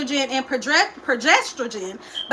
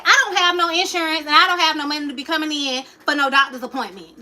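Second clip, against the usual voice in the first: fast, snippy; faster than usual. Retold or imitated. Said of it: "This how I'm talking to the people".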